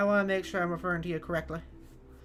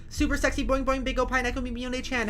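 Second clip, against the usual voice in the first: effusive greeting; 7 semitones higher than usual. Real, not acted. Streamer greeting a favorite viewer, effusive. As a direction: gush hello at a favorite viewer.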